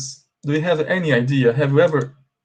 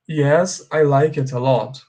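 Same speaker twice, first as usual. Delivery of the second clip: model sentence. Shown as a demonstration. Teacher modelling the right phrase for students, clear and steady. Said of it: "You should say".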